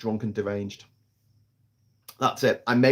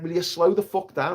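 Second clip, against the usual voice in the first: mock plea to driver; 4 semitones higher than usual. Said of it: "I'm saying to the driver".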